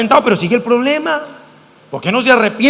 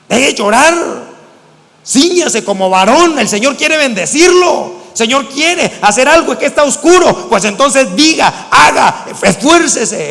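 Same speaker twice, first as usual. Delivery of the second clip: stern exhortation; 3 semitones higher, slower than usual. Retold or imitated. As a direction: drive each word home like rebuking a crying believer. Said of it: "yo se los digo a algunos hermanos".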